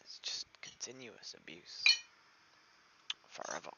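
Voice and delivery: hushed, despairing whisper. Real, not acted. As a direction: barely voice it, defeated. Quiet despairing complaint.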